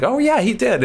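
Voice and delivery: high, breezy mock of his own casual answer; casual reply. Telling friends how he shrugged it off, high and casual. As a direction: toss it off lightly in a high voice.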